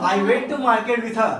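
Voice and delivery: slow model sentence, "her" said as a drawn-out "huh". Shown as a demonstration. Teacher modelling the sentence for class, "her" without its R. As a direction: end on "her" with a long vowel and no R. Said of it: "ऐसे ही उच्चारण होता है".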